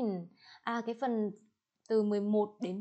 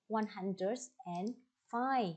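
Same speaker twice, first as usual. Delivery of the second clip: one hundred and five, slow and careful; unhurried teacher demo; slow model reading; much slower than usual. Shown as a demonstration. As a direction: spell it out slowly for the class. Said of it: "các bạn sẽ đọc như thế nào".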